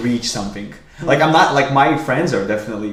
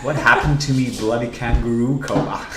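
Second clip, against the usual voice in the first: attempted Australian accent. Shown as a demonstration. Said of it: "you can do an Australian accent".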